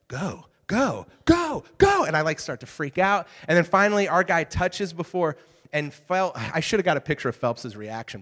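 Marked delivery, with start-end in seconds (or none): 0.1-2.0 high, loud cheering at the TV; retold cheering. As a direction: cheer on the swimmer. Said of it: "and I was like".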